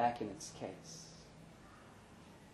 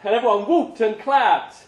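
lifted, louder narration over the crowd; raised narration; 13 semitones higher, 12 dB louder than usual. A narrator's reading. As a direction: carry it up like a stage announcement. Stage banter recalled, raised voice.

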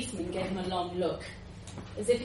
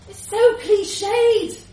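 scornful drawl; 13 semitones higher, 13 dB louder, much slower than usual. Acted. Policeman mocks jumper.

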